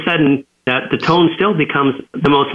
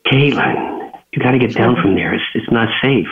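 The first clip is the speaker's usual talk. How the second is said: gentler tone; 3 semitones lower than usual. Retold or imitated. Dad gently coaxing daughter down from the ladder. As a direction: ease off into a calm caution. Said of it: "I like that tone better".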